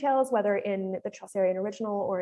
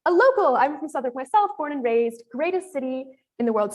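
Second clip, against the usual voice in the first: excited innkeeper; 4 semitones higher, 4 dB louder than usual. Acted. Reads innkeeper's proud reply.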